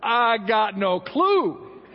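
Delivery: mock-baffled husband voice. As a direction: throw up your hands like a clueless man. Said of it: "And a man goes".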